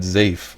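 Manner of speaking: "zafe" with a buzzing z instead of s; corrected pronunciation. Shown as a demonstration. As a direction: say "zafe" as in the game text, z for s. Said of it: "Actually, he said".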